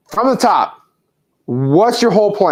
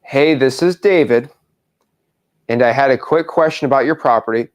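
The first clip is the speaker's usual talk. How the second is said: dictating. Shown as a demonstration. Coach dictates a voicemail script.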